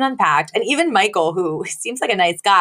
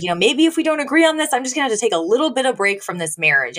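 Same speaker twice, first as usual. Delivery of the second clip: mock huffy wife; 4 semitones higher, faster than usual. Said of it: "she's like".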